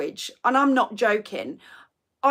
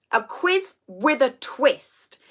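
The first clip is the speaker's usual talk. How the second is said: slow title announce; 3 semitones higher, much slower than usual. Shown as a demonstration.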